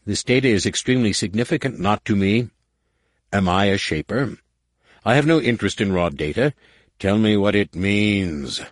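impatient alien commander; clipped, demanding warlord; stern warlord voice. Acted. War Master voice.

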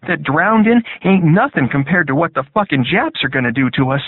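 high, loud Southern soldier. A narrator's reading. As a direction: raise pitch for Hugh, rough and scared. Hugh voiced, frightened soldier.

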